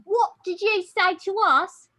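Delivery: slow, high, loud British outrage; mock British accent. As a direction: drag out an indignant British challenge. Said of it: "And then the British said".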